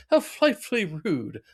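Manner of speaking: lightly voiced snooty lady; effete woman. Cohost voices fine lady Homer knocked over, snooty mock voice. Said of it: "She goes".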